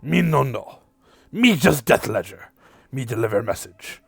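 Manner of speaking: lightly voiced small creature, broken English; a hint of a squat beast delivering a message; Vorlo's voice. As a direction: GM voicing the creature Vorlo, mild and earnest. Vorlo speaking.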